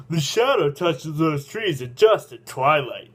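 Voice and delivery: slow retake. Acted. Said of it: "excuse me, everybody, I'm sorry".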